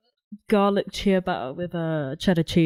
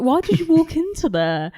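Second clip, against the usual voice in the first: puzzled question; 10 semitones higher than usual. Retold or imitated.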